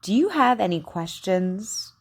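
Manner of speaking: slow, carefully shaped practice sentences; over enunciating. Shown as a demonstration. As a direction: model each Q word slowly and crisply. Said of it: "Just repeat after me".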